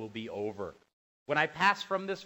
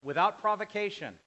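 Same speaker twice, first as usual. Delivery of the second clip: loud, raised, slow-ending accusation; indignant divine declaration; 3 semitones higher, 6 dB louder than usual. Acted. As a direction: declare the grievance forcefully as God. Preacher voices God's wrathful charge.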